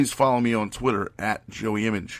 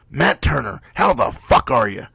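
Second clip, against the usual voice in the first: louder, higher big hello; loud hearty greeting; 4 semitones higher, 6 dB louder than usual. Retold or imitated. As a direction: greet him loud across the room. Walks in greeting a friend.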